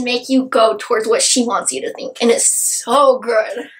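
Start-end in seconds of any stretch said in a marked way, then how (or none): 2.2-3.7 slow, savoured so good; gushing slowly over the book; drawn-out gush. Real, not acted. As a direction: stretch it out, dreamy.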